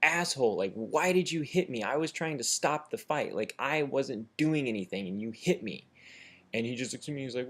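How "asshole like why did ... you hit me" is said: higher, mildly heated mock yell; retold indignant yelling. Drunk man confronting his puncher, mock indignant yell. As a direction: replay an aggrieved outburst without full volume. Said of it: "I start yelling at him".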